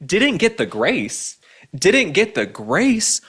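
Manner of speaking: repeating the quote back with contempt; incredulous mocking echo. Real, not acted. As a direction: drag it out in disbelief.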